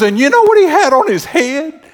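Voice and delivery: high-pitched, comic officious woman; imitating the dump guard. Dump guard reports on the previous driver, imitated high officious voice. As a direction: tell the tale as the suspicious little gatekeeper. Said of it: "She talked like that".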